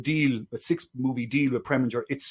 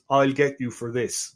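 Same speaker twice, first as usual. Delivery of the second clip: mock Deep South accent. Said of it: "the ultimate one was".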